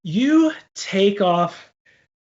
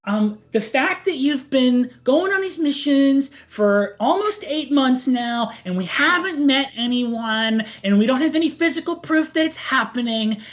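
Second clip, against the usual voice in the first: sweet naive mom; 6 semitones higher than usual. Acted. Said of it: "she nods and says".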